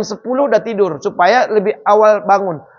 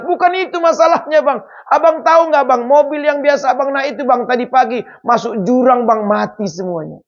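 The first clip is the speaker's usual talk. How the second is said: urgent news; 4 semitones higher than usual. Retold or imitated. Visitor urgently breaking the news.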